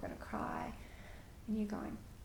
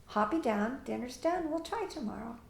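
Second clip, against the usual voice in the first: calm simple statement; 3 semitones higher than usual. Shown as a demonstration. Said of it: "Simple things like that".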